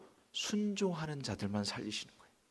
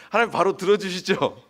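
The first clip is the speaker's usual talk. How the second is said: asked again, louder and pressing; a pointed, louder second ask; louder repeat for amen; 4 semitones higher, 10 dB louder than usual. Shown as a demonstration. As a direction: repeat it loudly to draw an amen. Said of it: "아멘 하셔야 되는데".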